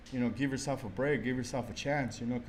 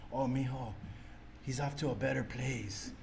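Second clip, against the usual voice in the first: mock sympathetic relative; 7 dB quieter than usual. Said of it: "everybody's like".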